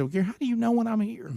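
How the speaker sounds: high, bewildered asking; incredulous retold question. Host asking Gary how he knows, high and baffled. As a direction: ask it way up in disbelief.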